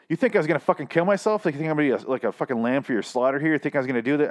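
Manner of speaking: high-pitched indignant retort, imitated; going off on someone. Reviewer voicing man who goes off on the woman who slapped him, indignant. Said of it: "he just goes off on her".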